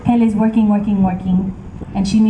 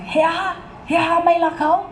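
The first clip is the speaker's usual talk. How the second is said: shocked outrage; 9 semitones higher than usual. Acted. Pele rejected, shocked.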